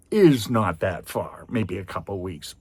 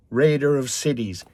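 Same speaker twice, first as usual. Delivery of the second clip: angry boast; 7 semitones higher, 6 dB louder than usual. Retold or imitated. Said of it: "burst of anger".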